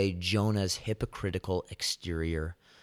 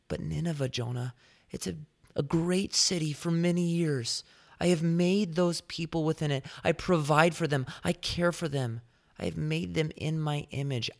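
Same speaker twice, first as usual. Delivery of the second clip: God pleading for Nineveh; 6 semitones higher than usual. Retold or imitated. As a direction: plead for the city he made. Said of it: "God is asking Jonah".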